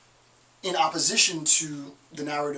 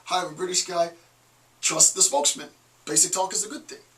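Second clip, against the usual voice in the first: hammed-up British pitchman accent; bad British accent; 3 semitones higher, 3 dB louder than usual. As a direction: sell it in a clumsy British accent. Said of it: "my British accent is horrible".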